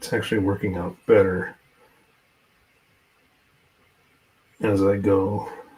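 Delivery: slow, deliberate, focused speech. Placing a tiny paint droplet under magnification, speaking slowly while concentrating. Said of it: "I'm sorry I'm speaking, slowly because I'm really concentrating".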